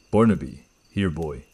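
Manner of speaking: put-on flat and spaced out, no intention behind "Barnaby, here, boy."; flat mimicked echo. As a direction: copy the words like reading a phonetic transcript. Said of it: "It was flat, metallic".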